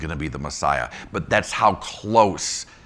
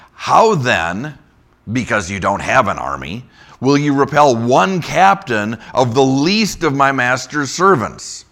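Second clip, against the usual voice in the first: louder, raised reading voice; scripture reading; 4 semitones higher, 6 dB louder than usual. Acted. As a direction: read the envoy's taunt aloud. Reads scripture verse aloud.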